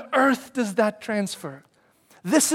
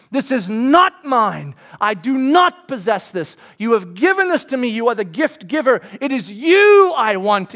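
fervent prayer; 3 semitones higher, 6 dB louder than usual. Acted. Voiced prayer of surrender.

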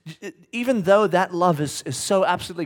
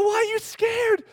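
gentle question; 13 semitones higher than usual. Retold or imitated. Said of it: "I go".

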